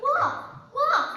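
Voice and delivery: high, loud cry for help; shouting the alarm; crying wolf. Acted. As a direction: yell for help like it's a real wolf. Boy cries wolf as a prank.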